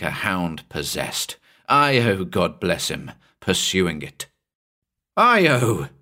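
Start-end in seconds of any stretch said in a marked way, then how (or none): 5.2-5.9 loud call after the dog; calling out to a running dog; yelled name. Acted. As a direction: shout the dog's name across the beach. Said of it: "I yelled".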